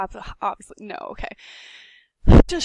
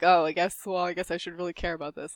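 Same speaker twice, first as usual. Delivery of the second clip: grudging student; 4 semitones lower, 3 dB quieter, faster than usual. Retold or imitated. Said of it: "my students are like".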